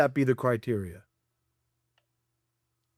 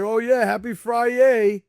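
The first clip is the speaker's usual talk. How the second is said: higher, slow, hammed-up cheer; mock happy workman; 8 semitones higher, 4 dB louder, slower than usual. Mocking the second workman answering, higher and slow. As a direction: drag out a fake-cheery reply. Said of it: "He was like".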